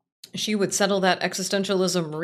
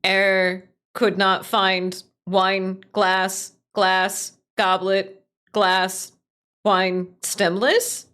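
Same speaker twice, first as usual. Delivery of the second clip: flat loud robot readout, slow; robotic error voice; 5 dB louder, much slower than usual. Pretend. Streamer voicing the AI's error message, loud and mechanical. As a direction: play the glitching AI reporting an error.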